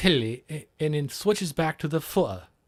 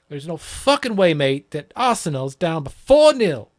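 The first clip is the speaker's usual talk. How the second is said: louder mock London pub banter about the score; put-on London accent, a bit louder; mock Cockney banter; 5 dB louder than usual. Retelling geezer exchange in accent.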